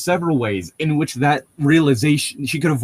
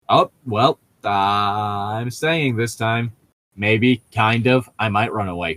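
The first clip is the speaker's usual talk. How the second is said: mocking Edward; 3 semitones lower, slower than usual. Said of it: "there isn't an actual change".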